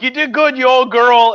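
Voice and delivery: high, loud cheer across the street; a bystander shouting fond praise; retold shout from the crowd. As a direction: yell it like a fan at the parade. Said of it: "and somebody shouts".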